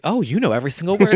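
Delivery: fast, high, teasing diva voice; imitating a pop star. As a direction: tease the fan like a pop star. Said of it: "She's like".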